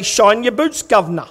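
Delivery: lightly put-on Cockney, dropping on the last word; mock Cockney accent. Guest greeting the Governor at dinner, mock Cockney accent. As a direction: have a playful go at Cockney. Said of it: "in your best Cockney ac-, accent, say".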